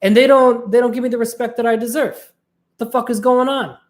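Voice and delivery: high-pitched exasperated rant; fed-up complaint. Retold or imitated. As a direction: whine about not getting respect. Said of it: "eventually they were like".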